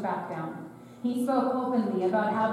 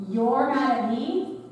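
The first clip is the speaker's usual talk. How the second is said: sarcastic God; 2 semitones higher, 3 dB louder, slower than usual. Acted. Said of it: "in a hilarious and uncharacteristically sarcastic manner".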